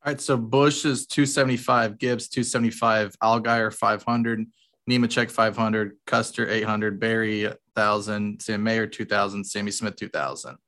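distant voice from next room; from another room. Real, not acted. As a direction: call out from the other room. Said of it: "hear the Trav from the other room".

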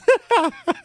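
short high laugh. Real, not acted. Host laughing at his own song.

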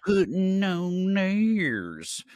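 very drawn-out, high silly title call; odd put-on voice. Host repeating the show's title, odd put-on voice. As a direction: sing out each word slowly in a goofy high voice. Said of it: "What is that voice?".

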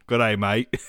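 mixed Aussie and Forrest Gump voice, soft; Forrest Gump impression. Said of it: "Australia to Forrest Gump".

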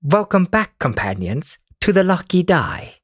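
lightly put-on British reading voice; a hint of fake British narrator; soft-spoken British. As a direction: read the recap in a mild mock-British voice. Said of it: "that's my soft-spoken British voice".

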